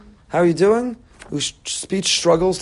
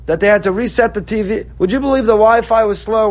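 higher, louder, petty griping about the flight; mock whiny complaint; 5 semitones higher, 5 dB louder than usual. Passenger complaining to a loved one, mock whiny and loud. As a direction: whine like a spoiled passenger. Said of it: "we'll tell you".

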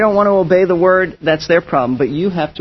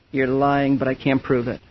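much softer, low, to himself; softer and lower, thinking aloud; inner thought; 5 semitones lower, 8 dB quieter than usual. Retold or imitated. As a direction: mutter it as a private suspicion.

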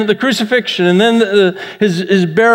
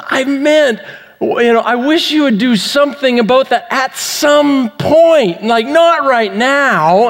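higher-pitched imitation of a wife clarifying; exasperated wife; 4 semitones higher than usual. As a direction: spell it out with mild mock exasperation. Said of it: "She says".

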